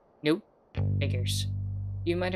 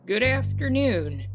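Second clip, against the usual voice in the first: higher and louder than intended; attempted deep voice; 8 semitones higher, 6 dB louder than usual. Shopkeeper Wendy greets the detective, reaching for a deep voice. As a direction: shopkeeper greeting that misses the low note. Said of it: "I need to go down".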